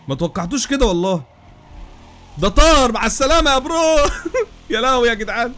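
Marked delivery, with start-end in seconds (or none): 2.4-4.0 high, loud triumphant call; excited whoop. Real, not acted. Racer cheering as the rival car flies away. 4.3-5.5 laughing through the words; laughing disbelief. Real, not acted. Gamer laughing in disbelief after a crash.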